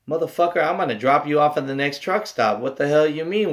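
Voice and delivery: incredulous comeback, pitched a little up; mock-outraged setting him straight; retold indignation. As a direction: push back in disbelief. Retold indignant reply to hitchhiker.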